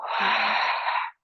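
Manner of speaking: breathy sigh. Shown as a demonstration. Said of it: "And let it go".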